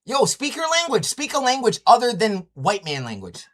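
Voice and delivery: loud, high, heated demand; angry yell. Real, not acted. Streamer yelling at a caller to drop English, heated shout. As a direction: shout him down, jabbing each word.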